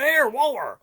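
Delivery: mock call across the street; hailing someone. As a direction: hail an acquaintance down the road. Hailing Walter in retold chat.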